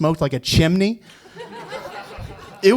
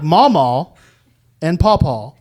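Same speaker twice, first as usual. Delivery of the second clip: slower repeat; 4 dB louder, slower than usual. Retold or imitated.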